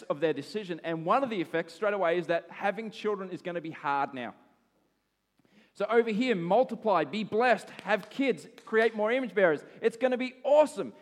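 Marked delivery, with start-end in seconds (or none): 5.7-10.9 loud, high, rousing burst; excited proclamation. Acted. Preacher voicing the original blessing, excited proclamation. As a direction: proclaim it with big, raised energy.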